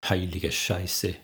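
slow, slightly panting curse; a touch of breathlessness, drawn out; gasped curse. A narrator's reading. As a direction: let it out as a mild gasp. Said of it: "keuchte sie".

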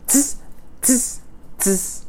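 short hissed monkey tsks; monkey "tss". A narrator's reading. Monkeys mocking the peddler with sharp hissed tss sounds. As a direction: imitate monkeys going "tss". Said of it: "shook their fingers at him and said".

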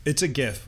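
"gif" with a hard G, as in go. Real, not acted. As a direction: say "gif" starting on a firm g. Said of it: "with a hard G".

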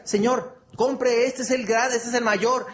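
a hint of a street vendor's sales pitch; lottery vendor pitch. Lottery seller pushing tickets on a passer-by, lightly acted sales pitch. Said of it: "el que vende cachitos de lotería".

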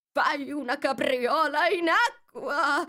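loud, high, drawn-out cry; Mock Turtle shouting. A narrator's reading. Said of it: "gridò la finta tartaruga". (grido forte, acuto e prolungato)

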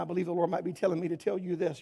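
"might" held tentative and apart; stress on might. Shown as a demonstration. Preacher hedging to the church, stress on "might". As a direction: lean on "might" as uncertain. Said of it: "how I said the word might".

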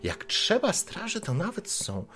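prying neighbour woman, lightly voiced; a hint of a busybody lady poking her nose in; nosy townswoman. Townswoman questions the guards, lightly voiced and prying.

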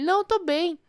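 husband insisting he is fine to drive; drunk husband voice. Retold or imitated. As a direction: play the stubborn drunk husband brushing her off. Wife retells drunk husband's refusals.

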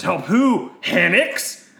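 high, loud questioning voice; white-haired lady. Acted. Lady questions squid Jedi, high loud voice. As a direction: put on a high, incredulous lady. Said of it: "And the lady says".

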